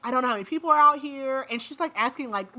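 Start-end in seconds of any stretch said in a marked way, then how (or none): 0.0-1.4 fast, louder, higher panicked rush. Retold or imitated. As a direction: mimic her panic, rushing the words. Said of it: "so Jessica's, like, panicked".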